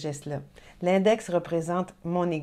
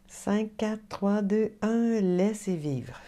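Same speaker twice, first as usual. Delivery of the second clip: calm countdown; much slower than usual. Shown as a demonstration. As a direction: count down gently, slowing at the end. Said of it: "breathing countdown".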